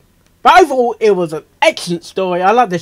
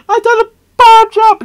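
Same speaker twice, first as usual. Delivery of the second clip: high, louder whiny wail; nagging conscience voice; 13 semitones higher, 9 dB louder than usual. Retold or imitated. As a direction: whine it like the doubting inner voice. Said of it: "nagging thing".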